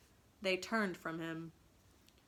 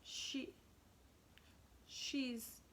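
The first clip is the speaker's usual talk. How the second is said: uncomfortable; 5 semitones higher, much slower than usual. Acted. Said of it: "he said uncomfortably".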